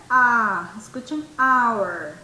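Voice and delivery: AH isolated, then OUR from that vowel; vocal inicial. Shown as a demonstration. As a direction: show the ah that opens OUR. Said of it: "escuchen, our". (ah y luego our, sin hache)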